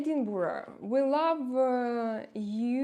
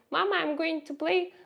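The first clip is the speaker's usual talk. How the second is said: higher voice, lightly imitating a child to Mama; a hint of an eager son; lightly voiced son; 5 semitones higher than usual. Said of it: "my son always says that".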